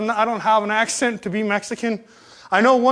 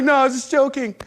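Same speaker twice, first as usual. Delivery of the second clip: higher, amused, through a laugh; 5 semitones higher than usual. Real, not acted. Man reassuring the kid about candy, laughing. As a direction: laugh it off as you say it. Laughs while retelling the joke.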